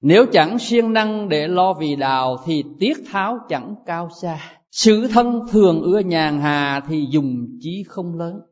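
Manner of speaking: slow, measured recitation of the master's words; solemn quotation. Shown as a demonstration. Teacher quoting a Zen master to monks, slow and solemn. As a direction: intone it slowly like scripture. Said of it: "Ngài nói".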